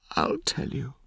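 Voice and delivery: hushed, breathy whispered promise. A narrator's reading. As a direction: whisper it like a reluctant confession. Rosa reveals secret reluctantly.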